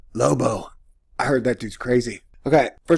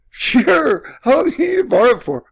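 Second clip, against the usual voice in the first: eager lender; 10 semitones higher, 4 dB louder than usual. Acted. Acted lender agreeing eagerly.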